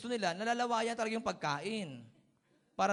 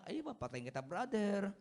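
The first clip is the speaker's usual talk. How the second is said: gentle Ilonggo sweetness. Retold or imitated. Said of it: "kahit papatayin ka na".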